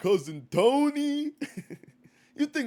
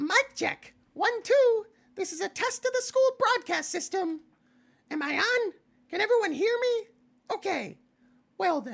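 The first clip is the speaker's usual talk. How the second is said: very high, playful, carefree announcer voice. Reading a game aloud, trying the announcer's lines in Monokuma voice. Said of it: "I've heard what his voice sounds like".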